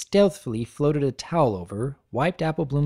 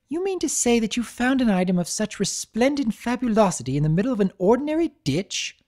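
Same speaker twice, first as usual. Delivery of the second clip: breathless delighted lady voice; 6 semitones higher than usual. Acted. Rarity delirious.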